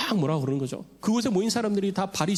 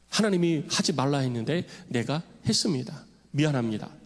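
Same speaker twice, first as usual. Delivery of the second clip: lower, sober voice asking forgiveness; humble confession; 3 semitones lower than usual. Retold or imitated. Paul confesses to God, humble sincere apology. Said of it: "용서를 구한 거죠".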